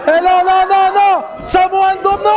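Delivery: excited play-by-play rising; wrestling commentator. Real, not acted. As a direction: call the finish in disbelief. Excited live commentary on finish.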